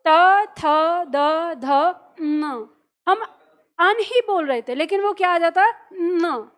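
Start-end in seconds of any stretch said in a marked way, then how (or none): 0.1-2.7 crisp dental त थ द ध न, each set apart; slow syllable drill; articulated letters. Shown as a demonstration. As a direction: tap the tongue on the teeth for त थ द ध न. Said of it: "अब फिर से उच्चारण करके देखो".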